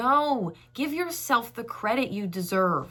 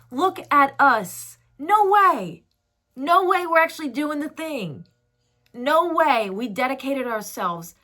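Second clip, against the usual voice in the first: amazed younger self; 2 semitones higher, 6 dB louder than usual. Acted. Younger self looking at the grown one, amazed and increasingly excited. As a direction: marvel with mounting excitement, as if you can't believe it. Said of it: "Little you is looking at you like".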